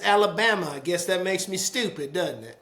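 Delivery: lightly imitated wounded Alabama man; offended. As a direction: take mild offence, falling off at the end. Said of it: "the guy was offended".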